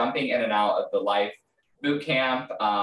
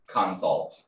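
"Consult" stressed as two distinct syllables; over-emphasized consult; 4 semitones lower than usual. Real, not acted. Recalling a course name for co-host, "Consult" over-emphasized in two syllables. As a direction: split "Consult" into two carefully separated syllables. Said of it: "why I emphasize the word consult so much".

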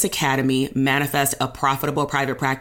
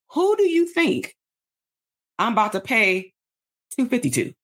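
mocking sassy voice; 6 semitones higher than usual. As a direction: tease the listener like a skeptical buyer. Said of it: "compared to".

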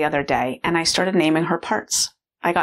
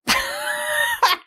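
high squealing mock laugh of a little girl; imitated child's shriek-laugh. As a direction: squeal out a kid's giggle, mock yell. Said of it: "And she was like".

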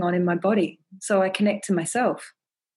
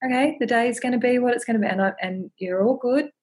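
higher, gentle self-reassurance; self-soothing; 4 semitones higher than usual. Shown as a demonstration. Speaker comforting herself in bed when anxious, gently higher. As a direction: coax yourself like a scared child. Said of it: "I actually talk to myself".

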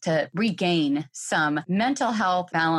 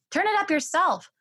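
mom's mock yell back; 11 semitones higher than usual. Mom refusing kids across the house, mock yell. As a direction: toss it back like a tired mom. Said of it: "You yell back".

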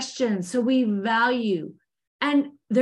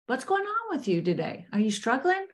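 gentle check-in. Retold or imitated. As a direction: ease off and ask kindly what's wrong. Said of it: "stepping back and going".

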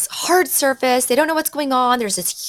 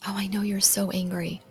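empathetic; 2 semitones lower, 7 dB quieter than usual. Shown as a demonstration. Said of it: "just naming their emotion".

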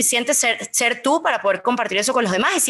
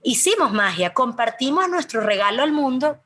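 awed; 3 semitones higher, slower than usual. Retold or imitated. Retells joy after retreat.

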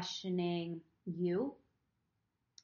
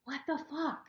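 louder, fed-up inner rant; retold exasperation; 6 semitones higher, 6 dB louder than usual. Retelling her resentment at the camp, exasperated and loud. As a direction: vent like you've had enough. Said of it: "I'm just sitting there just like".

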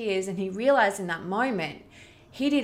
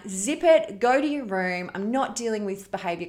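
stern mum; 3 dB louder than usual. Retold or imitated. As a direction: bark it like a fed-up mum sending the kid off. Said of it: "the typical me would have just been like".

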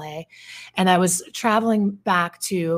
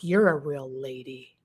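lower, slow sarcastic jab; mock sarcastic jab; 5 semitones lower than usual. Tourist sarcastically jabbing the swearing businesswoman, slow mock sarcasm. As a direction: needle her with dry sarcasm. Guy mocking her sarcastically.

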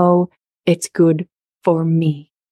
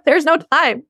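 laughing; 9 semitones higher than usual. Real, not acted. Laughing at refusing sex.

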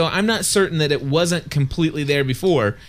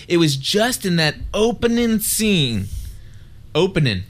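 put-on touch of Southern accent; 3 semitones higher than usual. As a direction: slip a little Southern twang into "opening". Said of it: "You like that?".

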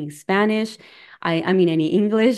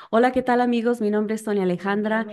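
higher, TV host greeting; lightly voiced TV reporter intro; 3 semitones higher, much faster than usual. Shown as a demonstration. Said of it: "my reporter voice here".

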